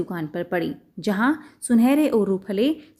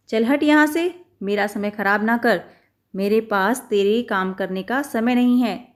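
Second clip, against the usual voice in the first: tailor shooing. Acted. Tailor shoos the mouse.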